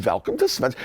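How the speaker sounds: light Swedish shop greeting; lightly put-on Swedish welcome; Swedish accent. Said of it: "wearing the paper hat and going".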